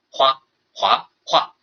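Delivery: 花、华、化 in separate Mandarin tones, level, rising, falling; tone demonstration. Shown as a demonstration. Teacher illustrating tones to a class, 花、华、化 as level, rising, falling. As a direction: say 花, 华, 化 one by one, each with its own tone. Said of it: "声调它是音节的音高变化".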